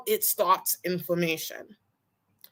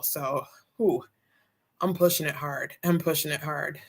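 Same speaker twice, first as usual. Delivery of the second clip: winded, puffing between words; breathless after the gym; out of breath; 4 semitones lower than usual. Real, not acted. Vlogger telling viewers about her gym push, out of breath. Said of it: "I'm still a bit out of breath".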